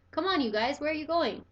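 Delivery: high call. A narrator's reading. Toby calls the pets, high. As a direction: call after them. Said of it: "Toby calling us".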